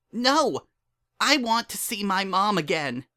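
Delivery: put-on high, loud child's no; defiant refusal. A narrator's reading. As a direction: refuse him outright. Dinky refuses her father.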